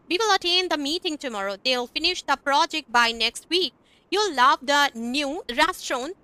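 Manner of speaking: slow, careful example sentences; slow teacher model sentences; slow demo reading. Shown as a demonstration. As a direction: read it out slowly for the class. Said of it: "हम इस तरह से बोल सकते हैं".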